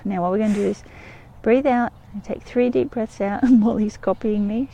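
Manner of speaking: normal talking voice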